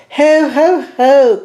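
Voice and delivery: high, loud ho ho ho; hammed-up tiny Santa laugh; jolly little Santa. A narrator's reading. Mouse disguised as Santa, ringing out a high jolly ho ho ho. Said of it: "cried the little Santa Claus".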